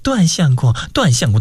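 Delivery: lightly squeezed, mincing girlish imitation; mock coquettish voice. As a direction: mimic a coy young woman, slightly pinched. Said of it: "压紧了嗓子". (压着嗓子学娇声嗲气)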